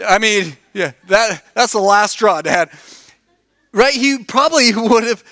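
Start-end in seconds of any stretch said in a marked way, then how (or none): 0.1-2.7 joking Isaac. Retold or imitated. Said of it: "He's like".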